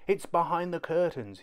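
put-on high child voice crying monster; a small boy faking fright to fool Dad; little boy's fake alarm. A narrator's reading. Kipper fakes monster fright to Dad, high pitched.

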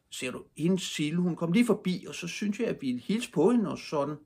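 put-on high-pitched young boy's voice; storyteller's boy character; boy making excuses. A narrator's reading. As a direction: explain yourself in a high, sing-song way. Boy explains himself sheepishly.

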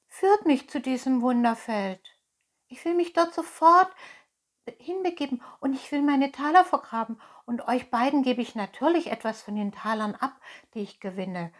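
high, rushing puppet voice; excited. Acted. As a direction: gabble it eagerly, pitch up, settling at the end. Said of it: "rief Pinocchio aufgeregt".

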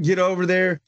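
normal talking voice

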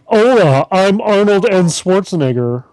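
deliberately bad action-star impression; lightly voiced, botched celebrity impression; Arnold Schwarzenegger. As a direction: introduce yourself in a clumsy put-on voice. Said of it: "now my impression of a person who doesn't know".

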